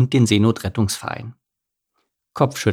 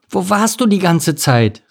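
raised-pitch parental reproach; scolding parents; 8 semitones higher than usual. A narrator's reading. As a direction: call out a mildly scolding question. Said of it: "riefen sie".

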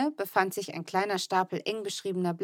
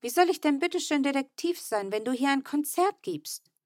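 yelling at brother; 7 semitones higher than usual. A narrator's reading. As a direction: snap at the noisy brother. Fine schimpft weiter.

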